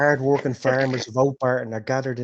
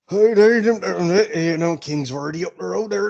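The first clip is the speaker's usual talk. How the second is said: calling out; 7 semitones higher, 8 dB louder than usual. Acted. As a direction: call out to someone across the crowd. Gilbert calls to Gil.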